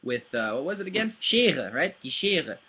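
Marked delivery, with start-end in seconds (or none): 1.2-1.7 "Schere" as SHAY-ruh, R in the throat; German "Schere" with a uvular R; throaty German R. Shown as a demonstration. Teacher recalling an earlier word, "Schere" with throat R. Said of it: "same weird r in the back of your throat". 2.0-2.6 "Schere" as SHAY-ruh, R in the throat; German "Die Schere" with uvular R; throaty German R. Shown as a demonstration. Teacher recalling an earlier word, "Schere" with throat R. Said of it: "same weird r in the back of your throat".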